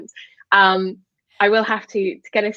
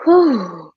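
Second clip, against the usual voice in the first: tired whew; 5 dB louder than usual. Retold or imitated. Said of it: "you kind of go".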